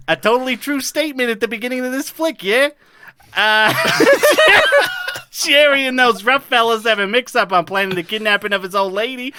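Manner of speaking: put-on light Minnesota accent summary read. Podcaster reading the Fargo recap in a light Minnesota accent. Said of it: "as I'm reading in this accent".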